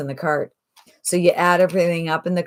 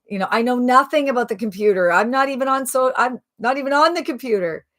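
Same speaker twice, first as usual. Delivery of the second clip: acted string of anxious excuses, pitch climbing; mock protesting; 2 semitones higher than usual. Host imitating people who say they can't, protesting. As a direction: pile up objections like a reluctant beginner. Voices hesitant people's objections.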